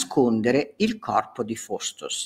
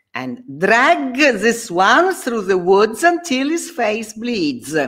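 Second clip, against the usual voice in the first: much higher, sneering order; cruel command; 8 semitones higher, slower than usual. Acted. Faustus ordering devils to punish Benvolio, cruel. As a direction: relish the cruelty.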